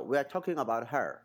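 American English, rhotic "her" with an r; 美式发音; American accent. Shown as a demonstration. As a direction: say "We are talking about her" the American way, "her" ending in r. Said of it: "美语说这个her".

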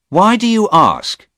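high, loud startled question; startled young man; surprised young man. Acted. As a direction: woken too early and baffled. Stephen voiced, wary.

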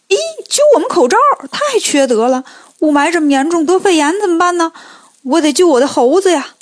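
a startled, outraged monkey king; indignant surprise. Acted. Monkey King protesting the soldiers pulling masks, shocked. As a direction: jump up high and fast on the opening cry, then complain. Monkey sees his troops harmed.

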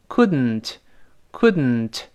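"couldn't" with the d released through the nose; tongue stuck up on d, "couldn't" exits by the nose; nasal plosion. Shown as a demonstration. Teacher demonstrates tongue position, "couldn't" with nasal release. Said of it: "鼻子出气儿".

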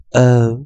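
"O" held as a long vowel, loud; each "O" separate, full and loud. Shown as a demonstration. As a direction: model the long "O" sound for students. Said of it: "O会念作长元音".

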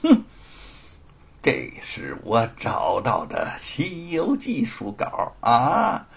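slow, gloating drawl; smug. Acted. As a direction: savour the victory. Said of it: "得意地说". (得意洋洋地说)

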